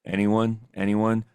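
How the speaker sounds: flat bored monotone teacher; Ferris Bueller teacher. Retold or imitated. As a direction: drone it like a dull teacher. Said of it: "or the teacher from Ferris Bueller's".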